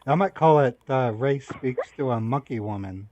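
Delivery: loud, gleeful taunt; loud gloating. Real, not acted. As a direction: crow it out loudly. Gloating loudly to scammer.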